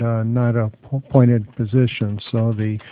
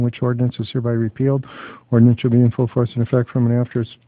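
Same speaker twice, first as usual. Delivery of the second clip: rapid legal reading; faster than usual. Acted. Counsel rattles off ordinance text.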